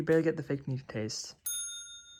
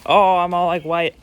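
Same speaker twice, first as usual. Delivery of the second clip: surprised; 2 semitones higher, 14 dB louder than usual. Real, not acted. Startled by flour on clothes.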